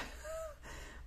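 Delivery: soft, breathy laugh. Real, not acted. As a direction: laugh lightly under your breath. Laughs at her total. (petit rire soufflé)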